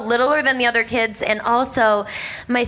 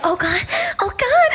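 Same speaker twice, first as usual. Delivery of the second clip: disgusted; 12 semitones higher than usual. Retold or imitated. Reacting to smelly spit.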